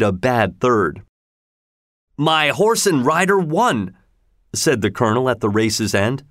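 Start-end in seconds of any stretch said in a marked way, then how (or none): 2.2-4.0 high, slow, amazed; the owner can hardly believe it; astonished delight. Acted. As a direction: colonel amazed at the win. Owner sees his horse win.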